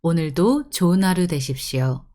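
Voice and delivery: formal Korean store announcement; smooth, measured announcer delivery; polite announcement. Shown as a demonstration. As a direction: welcome the customers over the tannoy. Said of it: "has to be all polite because it's announcement".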